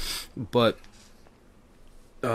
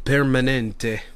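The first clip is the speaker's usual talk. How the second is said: mock Italian; 4 dB louder, slower than usual. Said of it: "an Italian word that I just made up".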